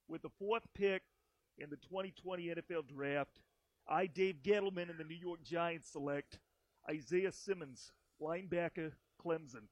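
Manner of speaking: lightly put-on thick New York accent; a hint of an East Coast accent, dropped R's; Dave Gettleman. Host announcing the pick as Giants GM, mild New York accent impression. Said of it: "Is that a good Gettleman?".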